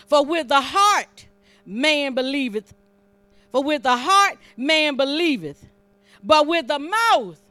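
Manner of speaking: loud, punched scripture phrases; forceful preaching. Real, not acted. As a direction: hammer the verse home, slowing at the end.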